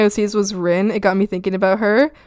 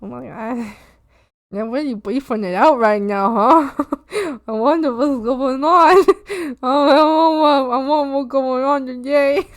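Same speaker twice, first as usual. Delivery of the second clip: silly puzzled frog voice, giggles between; imagined bystander frog; 3 semitones higher than usual. Retold or imitated. Frog with no idea what we're talking about, puzzled. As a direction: play a clueless frog onlooker. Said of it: "every other frog ... is just like".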